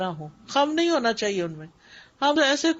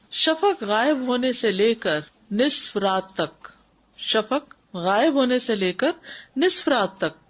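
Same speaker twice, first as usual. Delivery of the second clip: slow dictation; slower than usual. Shown as a demonstration. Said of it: "teacher repeats a timing rule".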